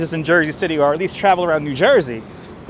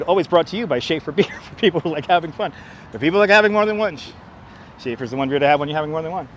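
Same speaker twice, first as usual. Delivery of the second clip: retro radio ad; 2 semitones lower, faster than usual. Pretend. Retro beer jingle read.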